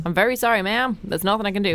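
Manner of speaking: a light hint of an American accent, polite; lightly imitating an American check-in agent. Mimicking the airport official who can't help, lightly American. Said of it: "I don't know why he's American".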